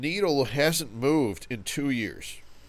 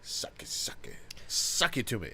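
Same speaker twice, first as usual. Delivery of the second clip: unvoiced, teasing whisper; mock whisper; 3 semitones lower, 10 dB quieter than usual. Friend teasing the host in a mock whisper. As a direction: breathe it out like a joke.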